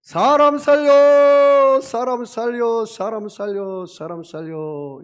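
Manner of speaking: long drawn-out high shout, fading with each repeat; acted cry for help. Sinking man to passerby, shouting for help. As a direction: yell for rescue, stretching the words, then tail off. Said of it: "이 사람이 소리쳤습니다".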